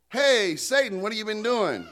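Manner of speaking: lightly acted high call. Preacher voicing God calling Satan up, lightly acted call.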